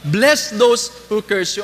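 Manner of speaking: mabagal at mas malakas, diin sa "Bless"; slow emphatic quote. Shown as a demonstration. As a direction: ipahayag na parang utos ng Panginoon. Inuulit ang talata ng Panginoon. (mabagal at malakas na pagbasa ng talata)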